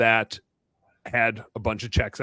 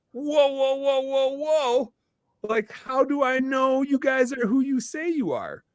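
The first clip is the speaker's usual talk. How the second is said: much higher, slow, mock alarmed whoa; alarmed guy; 12 semitones higher, slower than usual. The shop owner swarmed by callers, in a high mock alarmed voice. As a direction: play him backing off, wary. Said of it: "And he's like".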